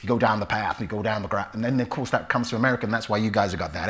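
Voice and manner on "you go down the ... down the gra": lightly Cornish, short vowel in "path"; Cornish accent. Shown as a demonstration. Actor demonstrates the Cornish accent that went to America. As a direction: say it like someone from Cornwall. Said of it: "That's how they talk in Cornwall".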